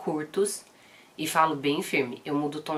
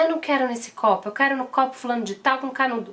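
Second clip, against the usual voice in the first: higher, louder imitation of a whining little girl; whiny toddler; 7 semitones higher, 4 dB louder than usual. Mother imitating her daughter refusing the cup, whiny and higher. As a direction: mimic a demanding toddler mid-tantrum.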